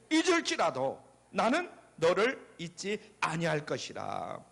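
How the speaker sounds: measured congregational Bible reading; scripture recitation. Acted. Preacher leading worshippers in Isaiah, solemn recitation. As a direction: recite it phrase by phrase for all to follow.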